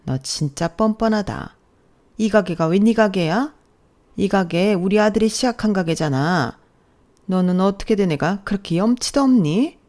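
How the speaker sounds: lightly voiced scolding mother-in-law; an accusing, mildly indignant elder. Mother-in-law claims her son's shop from daughter-in-law, indignant.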